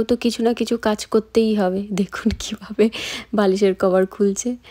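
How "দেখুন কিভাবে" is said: whisper. Real, not acted. Hushed aside while filming daughter.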